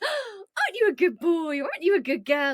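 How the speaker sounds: high, excited dog-praise voice; gasp, then gush high at your dog; owner praising dog. Acted. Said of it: "when its owner says".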